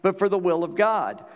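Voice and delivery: measured, even reading of scripture; preacher reading Bible verses aloud to the church, measured. Acted. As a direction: read the passage steadily to the congregation. Reads scripture passage aloud.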